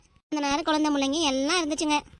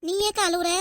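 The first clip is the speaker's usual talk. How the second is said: taken aback; 3 semitones higher than usual. Acted. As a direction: react with a touch of surprise. Taken aback at a rising hour.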